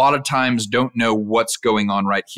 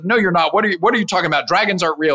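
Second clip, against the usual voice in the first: higher, incredulous mom, playfully acted; dismissive mom; 6 semitones higher, much faster than usual. Mom tells kid dragons aren't real, dismissive. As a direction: wave the kid off in disbelief. Mom's dismissal in retold story.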